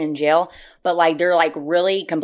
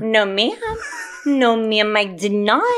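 laughing denial; 4 semitones higher, slower than usual. Real, not acted. Laughing denial after a joke.

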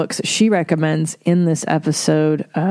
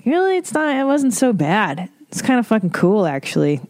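surprised reconsidering; 3 semitones higher than usual. Retold or imitated. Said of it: "you're like".

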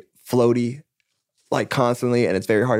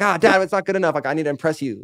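higher, mildly pleading retold protest; protesting to dad; 5 semitones higher than usual. Reluctant songwriter answering dad, mock pleading. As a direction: replay a child's reluctant plea to dad. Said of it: "I'm like".

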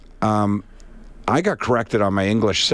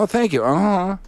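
imitating curt reply; 10 semitones higher than usual. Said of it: "But you go".

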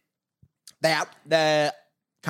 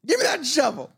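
higher, faster Southern voice; mock Louisiana kid; 10 semitones higher, faster than usual. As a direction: call to Mom about the gator. Gator in house sketch.

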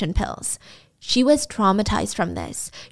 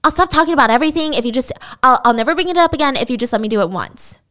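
mock begging; 4 semitones higher, faster than usual. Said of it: "he annoys her with".

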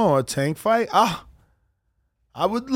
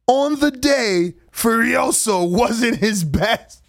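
Kambosos; 3 semitones higher, slower than usual. Retold or imitated. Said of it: "I just love your, uh, accent you do".

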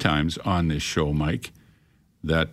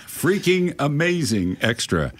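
slow, laughing, punching FREAKING; laughing emphasis; 5 semitones higher, slower than usual. Shown as a demonstration. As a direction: relish each word through a laugh. Repeats the phrase, savouring it.

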